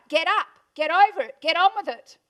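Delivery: father pushing his paralysed daughter, loud and firm; dad's loud command. Retold or imitated. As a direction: bark the orders like a tough dad. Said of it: "it was my dad. He said".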